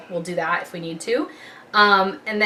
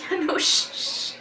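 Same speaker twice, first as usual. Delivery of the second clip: laughing shush; 10 semitones higher than usual. Retold or imitated. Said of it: "I'm like".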